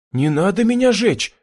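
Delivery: high, loud pleading wail; wailing plea. A narrator's reading. Captive begging the butcher, high wailing plea. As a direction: beg not to be burned. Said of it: "запричитал я".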